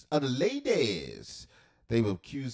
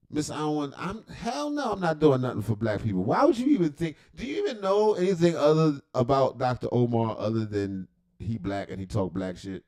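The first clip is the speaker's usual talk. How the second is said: indignant refusal; 3 semitones higher, 5 dB louder than usual. Acted. Doctor Umar refusing the campaign, loud and indignant. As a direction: scoff hard at the very idea.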